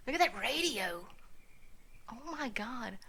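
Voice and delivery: breathless whisper of awe. Real, not acted. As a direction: gasp it quietly. Awed whisper at radio.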